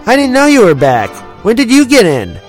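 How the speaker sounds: 1 delighted surprise. A narrator's reading. Luke surprised to see friend.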